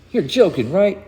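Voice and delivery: can't believe what he hears; incredulous. Acted. Hero doubting the plan to Booster, incredulous.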